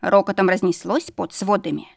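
usual speaking voice

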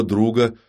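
друга picked out deliberately; друга set apart with deliberate vocal emphasis; stress on друга. A narrator's reading. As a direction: lean on the word друга. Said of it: "Он намеренно выделил голосом слово «друг»".

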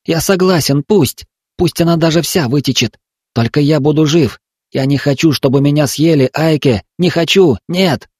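put-on trapped boy crying he won't be eaten; terrified pleading. A narrator's reading. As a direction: refuse death with all you have.

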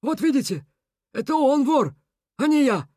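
high, emphatic self-vindication; smug snort. A narrator's reading. Beaver clearing himself before the crowd, high and smug. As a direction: point out the real culprit. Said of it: "хмыкнул Бобрович".

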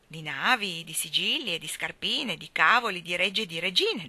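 mild recited verse lilt; understated playful declamation; declaiming. Acted. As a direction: recite it like a nursery rhyme. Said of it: "declamò Anna".

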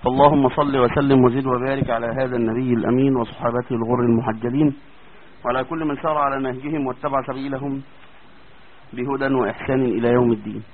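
soft, measured sermon-style praise; formal opening prayer. Acted. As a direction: recite the opening blessing calmly. Formal opening praise before lesson.

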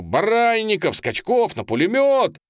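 very high, loud battle command; shouted order. A narrator's reading. Narrator shouting to two cossacks to rush the machine gun. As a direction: yell the men onto the gun. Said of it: "Я кричу".

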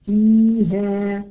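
فيها drawn out slowly, the ya stretched; slow demo word. Shown as a demonstration. Teacher stretching فيها to show its ya. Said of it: "تقولي كلمة فيها".

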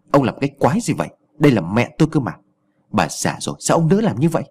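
mild angry rebuke, rising on the last question. Acted. Son scolding the chief who pushed his mother, mildly angry. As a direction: protect his mother with a touch of anger. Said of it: "giọng tức giận".

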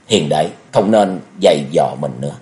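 low, gentle admonishment; dissuading. A narrator's reading. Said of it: "Tống Duy Bình can gián".

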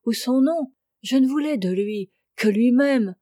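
lightly voiced woman, indignant and wounded; a touch of pained, impassioned pleading; protesting woman. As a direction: protest innocence with growing insistence.

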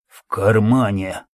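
slow, effortful words; strained weak voice. Acted. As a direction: force each word out. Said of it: "с трудом давалось каждое слово".

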